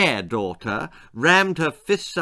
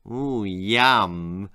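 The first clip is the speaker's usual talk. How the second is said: put-on cheeky girl; 5 semitones lower than usual. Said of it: "said Dee".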